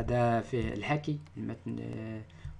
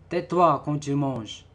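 firm, loud and slow order; stern command; 2 semitones higher, 8 dB louder, slower than usual. Shown as a demonstration. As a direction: snap it like a strict parent. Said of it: "on donne un ordre". (ordre sévère et fort)

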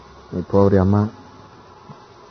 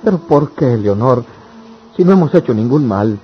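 higher and much louder, anguished; pained protest to his beloved; desperate pleading; 6 semitones higher, 8 dB louder than usual. Acted. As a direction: beg her to understand. Lover pleads with Leonor.

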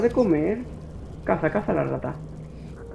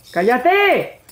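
annoyed shout; 4 semitones higher than usual. Real, not acted. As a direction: snap it at the noisy creature. Telling the creature to shut up.

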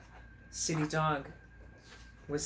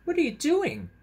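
much higher and louder, a curious little chipmunk; 7 dB louder than usual. Acted. Chipmunk asks the sitting dog, high and loud. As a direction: pipe it up high like a small chipmunk. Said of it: "asked Country Chipmunk".

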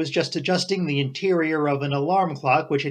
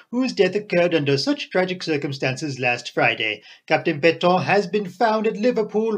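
reading aloud; 3 semitones higher than usual. A narrator's reading. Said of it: "he read them aloud".

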